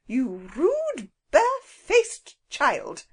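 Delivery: high, slow, outraged scold; enraged woman scolding the rude child; angry scolding. A narrator's reading.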